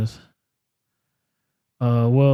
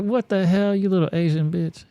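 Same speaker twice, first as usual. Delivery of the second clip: retold indignant outburst; 9 semitones higher than usual. Retells indignant reaction to insult.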